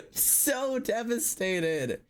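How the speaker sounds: slow, high moan; hammed-up heartbreak, drawn out; devastated. Real, not acted. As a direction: stretch it into a mournful whine.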